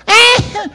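high, loud burst of wailing; sudden loud mock bawl; mock crying wail. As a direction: let out an exaggerated wail. Somebody in my room crying.

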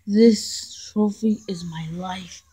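slow, hushed whisper; devoted whisper. Acted. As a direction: whisper it like a confession.

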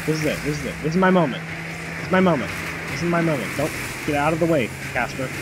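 hyped up. Real, not acted. Psyching himself up.

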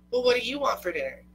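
high, loud, quick comeback; mock insistent retort. Partners stuck choosing dinner, insistent mock retort. Acted dinner question thrown back.

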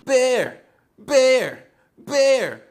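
short, high, loud shouts; mock yelling back. Bear echoes the woman screaming at him, yelling back. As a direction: fire each word back at her, high and punchy.

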